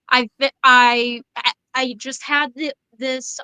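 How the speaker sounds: stammering on I; tripping over the words; stuttering. Real, not acted. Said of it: "excuse my stuttering".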